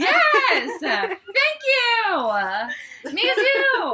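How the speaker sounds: excited shout. Real, not acted. Excited agreement, laughing.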